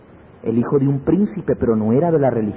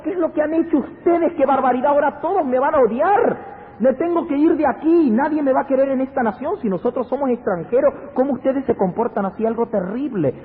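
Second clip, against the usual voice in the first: high-pitched mock lament of a dismayed father; retold tearful lament; 11 semitones higher than usual. Jacob reproaches his sons after the killing, acted anguished lament. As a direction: voice his distress high, without real sobs. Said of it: "se puso a llorar y dijo".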